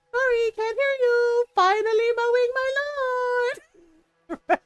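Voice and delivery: high, loud teasing yell; neighbor-baiting mock shout. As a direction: shout it back, mocking. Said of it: "he was laughing at the whole exchange".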